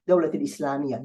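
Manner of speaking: "Dawlat" with the t linked into "al-Islamiyya"; final t sounded. Shown as a demonstration. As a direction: let the t of "Dawlat" carry into "al-Islamiyya". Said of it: "You would pronounce it if you create".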